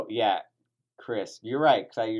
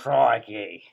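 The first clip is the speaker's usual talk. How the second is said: put-on Australian accent; 6 dB louder than usual. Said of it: "my Australian accent".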